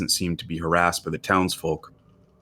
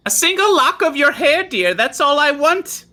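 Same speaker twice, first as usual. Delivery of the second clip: put-on older woman coaxing; 6 dB louder than usual. Old woman coaxing a girl for her hair, high and syrupy. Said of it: "the older woman says".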